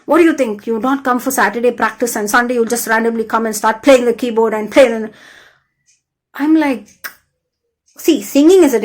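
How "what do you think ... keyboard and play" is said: mock scolding, raised voice; retold yelling. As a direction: imitate a louder, accusing outburst. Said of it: "randomly started yelling at me".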